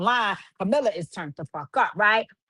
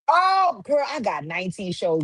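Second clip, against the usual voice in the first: mocking impression. Mocking DJ Scott as victim.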